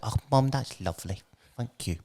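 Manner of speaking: soft, grateful murmur; quietly moved little thank-you; touched child. Acted. Touched child thanks her mother.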